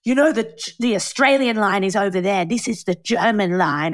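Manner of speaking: mildly exasperated huff; huffing and puffing impatience, retold; huffy official, imitated. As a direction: lightly imitate a put-out customs officer. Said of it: "huffing and puffing".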